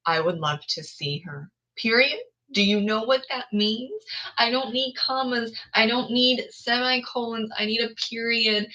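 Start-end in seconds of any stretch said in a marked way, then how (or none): 1.8-8.7 raised, pleading rant about periods; exasperated. Real, not acted. Reader begs author for a period, exasperated and raised. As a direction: plead with the author, half laughing in frustration.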